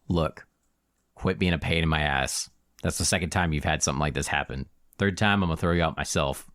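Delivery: low, weary warning; fed-up, controlled threat; stern Minotaur bouncer. Acted. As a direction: lay down the law in a deep voice. Game master plays the Minotaur.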